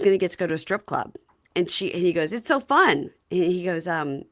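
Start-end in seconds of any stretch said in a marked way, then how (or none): 2.3-3.1 mock excited, higher and louder; excited husband quote. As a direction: gush like a giddy husband. Retelling reality show husband quotes.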